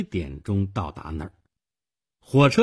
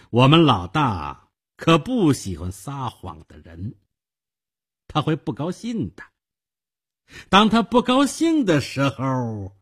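pointed menace, rising high and louder; veiled threat; 5 semitones higher, 4 dB louder than usual. Acted. Investigator invoking his boss to scare the clerk, threatening. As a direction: let the threat build and hang unfinished.

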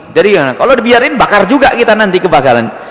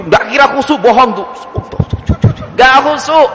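mock mother; 6 semitones higher than usual. Mocking the mother who keeps praying.

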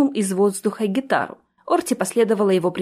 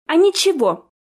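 high, loud cutting reply; curt retort; 9 semitones higher, 4 dB louder than usual. A narrator's reading. Orti answering Jessica, curt retort. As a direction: cut her off flatly. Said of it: "отрезала Орти".

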